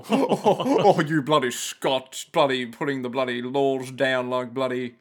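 laughing, exaggerated Australian accent with lots of bloody; Broden Kelly impression. Mocking his co-host as a scolding Aussie, Australian accent. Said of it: "I like your Broden Kelly impression".

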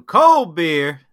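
loud stadium vendor shout; beer vendor call. Retold or imitated. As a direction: hawk beer to the crowd. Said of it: "a guy walking around going".

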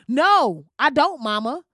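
loud, emphatic mock refusal; defiant protest. Grown child talking back to mama about Ben Carson, defiant. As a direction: push back hard at mama, playfully overdone.

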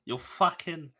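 failed attempt at a gangster accent; Stephen Graham. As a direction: have a hammed-up go at the accent. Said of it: "I've become Stephen".

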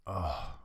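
heavy sigh of mock frustration; acted exasperated sigh. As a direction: let out a fed-up "oh" as a sigh. Acts out growing frustration.

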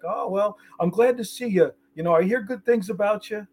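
mock condescending, pitched well up. Rival tool dealer patronizing the speaker, imitated condescending tone. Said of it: "he's so condescending".

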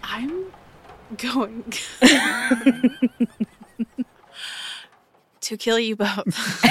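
mock threat broken by laughter; laughing. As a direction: giggle through a fake menace. Joking threat through laughter.

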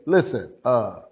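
comic swagger, lightly acted; intimidating. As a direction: bluff a threat, hurried and half-laughing. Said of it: "he's trying to intimidate Jesus".

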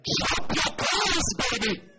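put-on drawn-out Ghanaian-accented plea, loud and high. Preacher haggling in a Ghanaian accent. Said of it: "my Ghanaian accent is not working".

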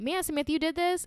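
high-pitched imitation of an impressed commenter; mock amazement. Commenter reacting to her flyers, amazed.

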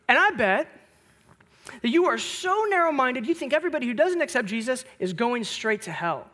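imitated accusation, starting high and loud; accusatory. Student calling the pastor narrow-minded, accusatory. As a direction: mimic a student laying a charge, easing off toward the end. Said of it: "in kind of an accusatory tone".

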